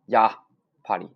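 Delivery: やっぱり with や left open and no tension before ぱり; wrong limp sokuon. Shown as a demonstration. Teacher warns students what not to say, limp and uncontrolled. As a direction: let や go slack, then a weak ぱり. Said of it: "不行，没有劲儿不行".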